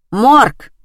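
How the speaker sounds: loud curt bark into the phone; barked answer. A narrator's reading. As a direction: bark the word at the caller. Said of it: "рявкнула невидимая тётка".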